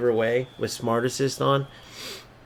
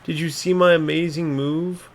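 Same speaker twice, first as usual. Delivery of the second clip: a lightly voiced smug gamer, a bit higher; mocking the opponent; 4 semitones higher than usual. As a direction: gloat like the rival bragging about his move.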